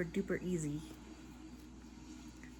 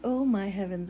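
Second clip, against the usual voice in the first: louder weary oh my heavens; tired exclamation; 6 dB louder than usual. Real, not acted. Tired crocheter exclaims loudly to her viewers. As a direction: let it burst out from sheer tiredness. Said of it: "I'm tired".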